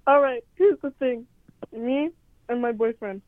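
talking while eating hot Cheetos; words around a mouthful of snacks; mouth full. Real, not acted. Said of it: "I'm just eating my hot Cheeto fries".

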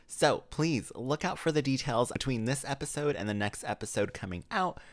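ordinary talk, nothing marked

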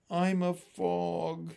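slow, drawn-out, dejected admission. Acted. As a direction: say it slowly, head hung. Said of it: "He hung his head".

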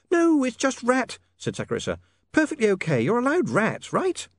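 high, soothing, insistent; coaxing young lady. A narrator's reading. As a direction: talk him into eating. Sacharissa coaxes.

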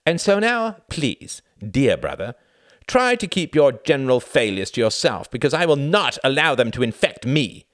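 high, loud, withering dismissal; cutting scorn. A narrator's reading. Reginald wounding his brother Tom, scornful. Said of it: "His eyes danced with pleasure".

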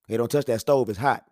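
firm parent's command; parental order. Acted. Parent orders child away from hot stove, firm. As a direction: give a short, firm warning, no explaining.

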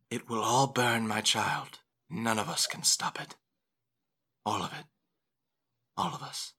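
quiet, ominous prophecy; Dolores. Acted. Dolores telling the mother of coming doom, ominous. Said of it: "Dolores goes".

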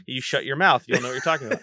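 laughing, playful telling off; laughing mock scold. Real, not acted. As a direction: scold your friend through laughter.

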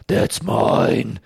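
weird put-on movie-character voice; mock an actor's odd film voice; drawn-out, oddly accented impression; Tom Hardy. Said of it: "can't stop making weird voices".

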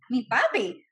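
retold wounded cry to a father; heartbroken. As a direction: plead with daddy, hammed-up hurt. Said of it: "like my heart was ripped".

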